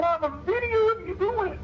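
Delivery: high, light telling; high-pitched gentle insisting; squeaky voice. Retold or imitated. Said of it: "his voice gets all low and squeaky".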